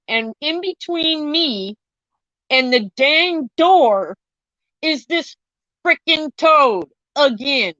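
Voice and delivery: slow, drawn-out words with dramatic pauses; suspenseful reveal. Real, not acted. Telling of the toad blocking the door, slow dramatic reveal. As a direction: stretch each word out for horrified emphasis.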